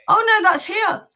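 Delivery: high, loud, laughing through the words; giggling realisation it's playing here. Real, not acted. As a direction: laugh at your own mistake. Laughing at own mix-up.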